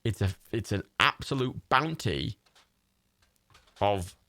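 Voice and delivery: slow, drawn-out theatrical relish; hammed-up delight. Player greeting a heap of random tat, hammed-up delight. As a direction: savour each word in mock wonder.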